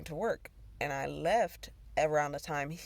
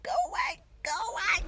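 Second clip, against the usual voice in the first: breathless scared hush, much higher; frightened whisper; 3 dB louder, faster than usual. Real, not acted. To the roach, a high scared breathy plea. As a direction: hiss it away in fear.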